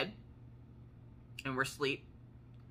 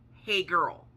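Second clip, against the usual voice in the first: Big Ma's greeting; 4 semitones higher, 5 dB louder than usual. Retold or imitated.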